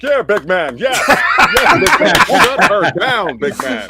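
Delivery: mock hollering with a drawn-out finish; rowdy cheering on. Fathers in the supermarket back him up, imitated rowdy cheering.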